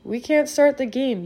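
a coach rushing on to stop the kickoff; urgent coach's protest. Retold or imitated. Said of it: "comes running on the field saying".

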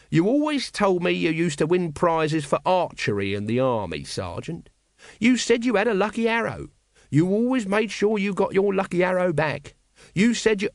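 eager little soldier butting in; eager Nobby voice. Acted. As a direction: pipe up eagerly as the little corporal.

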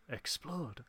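very soft imitated whisper; little whisper. Host mimics Rebecca's little aside, whispered. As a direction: drop right down to a tiny whisper. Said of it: "that little whisper from Rebecca's like".

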